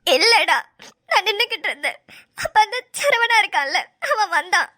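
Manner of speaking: tearful account; weepy, halting confession; crying. Acted. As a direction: tell what happened through sobs. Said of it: "அழாம சொல்லுடி".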